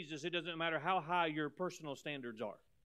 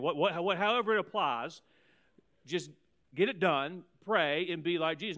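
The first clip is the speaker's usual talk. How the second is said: forceful preaching; 8 dB louder than usual. Real, not acted. Preacher urging the congregation.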